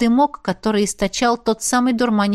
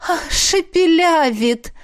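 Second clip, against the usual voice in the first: amused; 7 semitones higher, slower than usual. A narrator's reading. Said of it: "подтвердила Миранда и рассмеялась".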